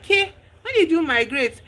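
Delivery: high, pointed teasing question; mock surprise. F teasing her rich friend, high mock surprise. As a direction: needle her about showing up rich.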